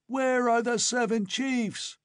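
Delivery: high, shrieking howl. A narrator's reading. Old chief howling at Conan in rage. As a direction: howl it with blade whirling. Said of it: "howled the old chief".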